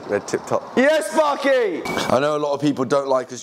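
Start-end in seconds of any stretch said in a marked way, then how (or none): 0.8-1.8 slow, drawn-out high cheering shout. Real, not acted. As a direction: cheer it out, long and loud. Cheering at a clean result.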